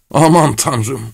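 acted, hopeless outcry; desperate. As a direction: exclaim it helplessly. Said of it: "sonra umutsuzca".

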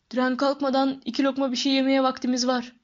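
friendly big man hurrying Harry; lightly voiced Hagrid.

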